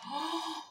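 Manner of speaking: high, soft gasp; sharp intake of breath in shock. Real, not acted. Reader startled by the cards, shocked gasp.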